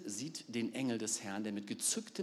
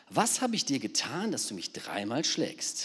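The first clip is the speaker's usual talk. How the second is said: donkey asking; 4 dB louder than usual. Acted. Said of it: "fragte sie Biliam".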